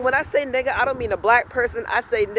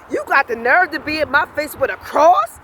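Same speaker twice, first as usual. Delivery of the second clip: high, indignant challenge; retold cussing out; 5 semitones higher, 4 dB louder than usual. Confronting the man about his cross, retold indignant cussing. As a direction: throw it at him as an outraged question. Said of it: "I was cussing his ass out".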